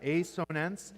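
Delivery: "A sonance" divided, with "A" said as "ay"; split into parts. Shown as a demonstration. Teacher repeats the word's parts for the class, "A sonance" split in two. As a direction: say "A sonance" as "ay, so-nance". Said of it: "So you can".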